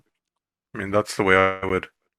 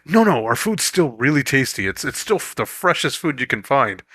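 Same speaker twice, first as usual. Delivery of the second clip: salesman voice; 4 semitones higher than usual. Retold or imitated. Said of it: "everyone's like".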